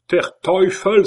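high, loud furious curse; angry German oath. A narrator's reading. Blue-dyed Schomberg cursing, loud angry German oath. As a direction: explode with the oath. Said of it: "s'écria-t-il".

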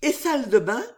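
lightly voiced inquisitive lady; Riquette.

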